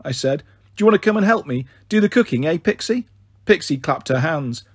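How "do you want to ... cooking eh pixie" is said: put-on quick, high coaxing to a child; jolly her along brightly. Big sister coaxing her sad little sister, bright.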